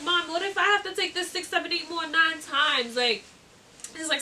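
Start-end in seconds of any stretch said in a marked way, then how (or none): 0.0-2.9 higher-pitched, mildly scared plea to mom; retold worry. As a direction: imitate fretting to your mother. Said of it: "I start getting more scared".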